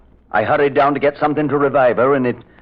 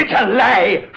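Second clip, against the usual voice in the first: angry; 10 semitones higher, slower than usual. Acted. Accused man protests loudly.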